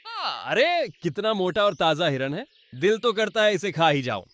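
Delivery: high, greedy, drooling exclamation; hungry onlooker. Acted. Narrator voicing a hungry animal eyeing the fat deer, greedy and high. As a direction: smack your lips over a tasty deer.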